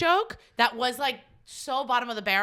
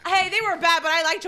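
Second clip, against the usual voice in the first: lightly voiced fan; 6 semitones higher, 6 dB louder than usual. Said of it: "someone goes".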